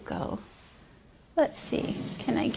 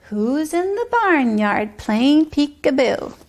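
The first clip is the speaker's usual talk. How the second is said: put-on sing-song rhyme for a child; bouncy nursery rhyme read aloud; rhythmic rhyme reading; 3 semitones higher than usual. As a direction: chant the barnyard poem with a steady beat. Rhyme repeated.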